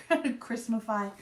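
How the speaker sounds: slow, drawn-out Christmafy after a laugh; playful Christmafy. Shown as a demonstration. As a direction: savour the new word Christmafy slowly. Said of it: "Is that a word?".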